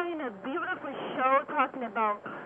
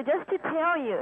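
to someone hard of hearing. Real, not acted. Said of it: "speak up".

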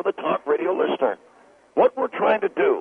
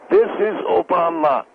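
talk-radio rant demo; slower than usual. Shown as a demonstration. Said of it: "You could do that, Phil".

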